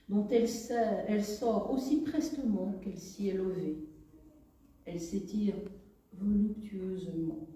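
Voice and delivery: measured poetry reading in short, paused phrases; expressive reading of one's own poem; poem recitation. Acted. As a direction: recite it line by line, lifting each opening and letting the endings fall. Reads her own poem aloud.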